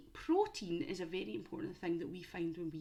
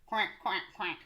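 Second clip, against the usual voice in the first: duck quacks. Shown as a demonstration. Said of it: "Can you do your favourite duck sound?".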